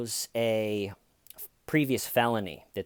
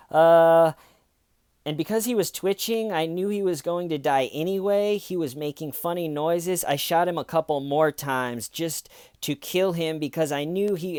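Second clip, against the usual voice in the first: rambling; 5 semitones higher than usual. Retold or imitated. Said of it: "and she's rambling".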